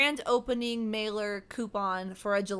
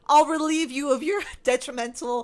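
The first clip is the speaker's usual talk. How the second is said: greedy excitement; 3 semitones higher, 5 dB louder, faster than usual. Retold or imitated. To the shop staff, eager and greedy. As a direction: gush over the free gelato. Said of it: "I was like".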